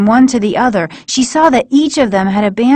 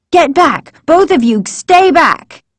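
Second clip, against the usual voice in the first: higher, sharp warning shout; 8 semitones higher, 3 dB louder than usual. A narrator's reading. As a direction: hold them both off. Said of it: "she warned".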